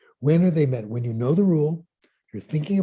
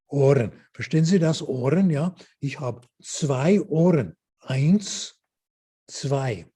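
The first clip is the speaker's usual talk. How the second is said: German lesson two. Shown as a demonstration. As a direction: spell each word out for beginners, naming body parts one by one. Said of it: "Here's language lesson number two".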